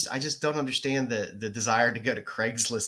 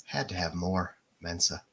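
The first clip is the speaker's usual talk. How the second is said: sultry narrator; 4 semitones lower than usual. Pretend. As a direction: read it like a seductive late-night voice. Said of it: "You gotta do it in your sexy voice".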